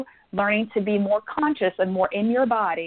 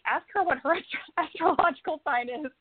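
voicing her spirit guides; 3 semitones higher, 3 dB quieter than usual. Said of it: "My guys were like".

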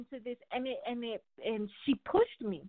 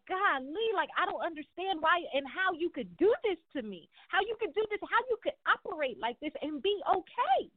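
hurt disbelief; 6 semitones higher than usual. Retold or imitated. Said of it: "that you like".

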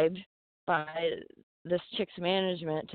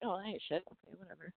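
dismissive mumble; 13 dB quieter, faster than usual. Retold or imitated. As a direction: shrug it off under your breath. Retold indifferent crowd.

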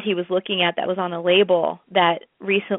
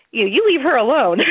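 protective warning; 5 semitones higher, 5 dB louder than usual. Retold or imitated. Frankie defends her to the label.

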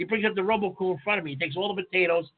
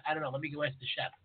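mock clueless waiter; 7 semitones lower, 8 dB quieter, faster than usual.

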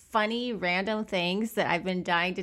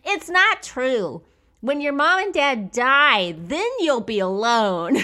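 put-on little girl; 5 semitones higher, 6 dB louder than usual. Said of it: "the little girl ... says".

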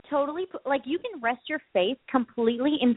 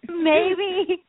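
evasive maybe; 7 semitones higher, 4 dB louder than usual. Retold or imitated. Retold evasive reply.

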